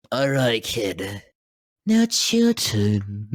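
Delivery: low murmur like Batman. Retold or imitated. Batman introducing Mark Hamill, low deadpan voice.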